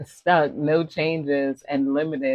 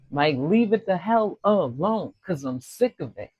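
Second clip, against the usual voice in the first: acted exasperation; 4 semitones higher than usual. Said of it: "Somebody is screaming maybe at them".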